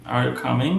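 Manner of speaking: "coming" goes up at the end; yes-no question with an upturned "coming"; rising intonation. Shown as a demonstration. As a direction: lift "coming" to check. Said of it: "ভয়েসটা উপরে যাবে".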